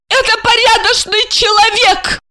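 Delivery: high, proud, tipsy declaration; haughty drunk woman defending her guest; drunken pride. A narrator's reading. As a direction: cut him off with tipsy dignity. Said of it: "с пьяной гордостью отрезала Ася".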